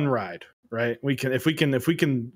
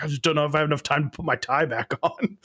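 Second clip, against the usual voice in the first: quick, higher quoting voice; Kevin from The Office; 4 semitones higher, faster than usual. Retold or imitated. Explaining a bathroom worry to a coworker, lightly imitated. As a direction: lightly imitate a sitcom character. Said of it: "reminds me of Kevin from The Office".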